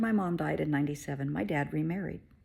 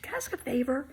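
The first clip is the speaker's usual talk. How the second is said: higher sugary HR voice; nosy HR woman; 9 semitones higher than usual. Retold or imitated. HR woman asking a favor, higher and sugary. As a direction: ask sweetly like a nosy HR lady.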